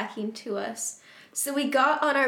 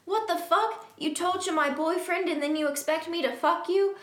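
higher-pitched acted indignant tirade; mildly angry; 5 semitones higher than usual. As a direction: tell him off in mock outrage. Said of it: "I said angrily".

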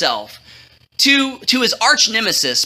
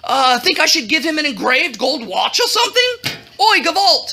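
high, swooping royal chatter; blustery, chummy king; 3 semitones higher than usual. Acted. King asking his advisor for ideas, effusive and fumbling. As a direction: swoop up high, then hem and haw. King greets and consults Haman.

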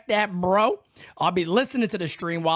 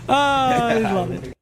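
thrilled; 5 semitones higher, 5 dB louder than usual. Real, not acted. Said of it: "I'm so excited".

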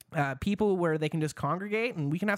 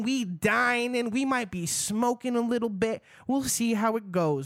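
hyped up; 7 semitones higher than usual. Acted. Continuing hyped wine cast bit.

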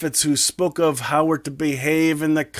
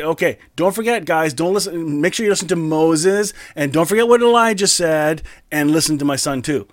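raised, hurried mock instructions; higher, louder teasing parody of God; 4 semitones higher, 4 dB louder than usual. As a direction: ham up the wrong message. Mock version of what God didn't say.

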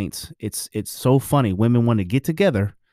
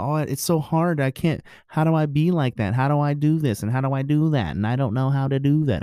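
higher, whining imitation of the wife; mock whiny wife; 3 semitones higher than usual. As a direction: lightly play the helpless complaining wife. Mimicking his wife complaining.

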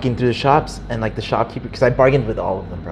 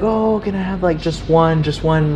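begging; 5 semitones higher than usual. Retold or imitated. Voices beggars asking for money.

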